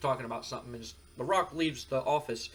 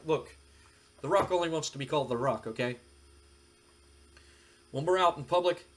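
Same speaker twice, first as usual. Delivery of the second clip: cocky Rock; 4 dB louder than usual. Retold or imitated. Rock insists on his name.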